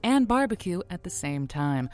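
honeyed late-night host, then a promo read; radio sign-off and promo. Acted. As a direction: tease the next show like a radio ad. Host signs off, reads promo.

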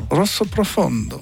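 rolled r and open vowels in Rosso Profondo, the Italian way; lightly Italian Rosso Profondo; Italian accent. Shown as a demonstration. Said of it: "comment ça se dit avec l'accent italien".

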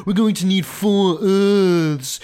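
a lightly voiced mock of a lofty royal, yes, yes; a hint of a pompous king lecturing; mocking King Charles. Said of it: "and he talks like this".

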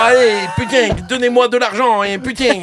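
high, loud caricature of a southern French accent; overdone southern twang with hard G endings. Shown as a demonstration. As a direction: plead in a badly faked Midi accent. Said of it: "un petit accent du sud".

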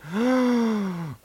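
high, long intake of breath; drawn-out gasp. Real, not acted. Critic recalling a terrible French accent, dismayed gasp.

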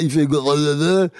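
imitated babble. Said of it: "quand il sait pas parler".

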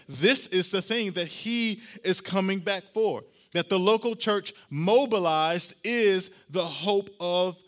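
loud, slowing sermon climb, punching each clause; full-force preaching. Acted. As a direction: preach it out, building to a peak.

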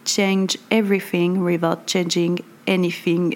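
self-mocking attempt at an English accent. Shown as a demonstration. Vlogger reads the English tagline in an English accent. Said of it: "Vous noterez mon super accent anglais".

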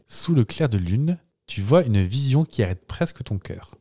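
deliberate dramatic reading, with pauses; spoken lyric recitation. Acted. Host reciting translated song lyrics, solemn spoken recitation. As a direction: recite it like a solemn horror tale. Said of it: "je les restitue parlées".

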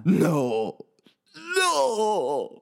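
high, loud frightened shout. Acted. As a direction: yell it in fear. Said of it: "Hurle Brovure".

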